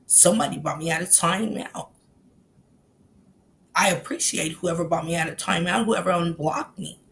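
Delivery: low, soft mimicked thanks; quiet, low put-on voice; imitating his talk. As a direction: mimic him politely thanking everyone, hushed and low. Mimicking the man from before.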